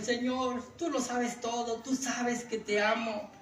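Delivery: lightly acted weepy confession; mock tearful plea. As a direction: plead as if crying, drawn out at the end. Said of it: "llora y llora".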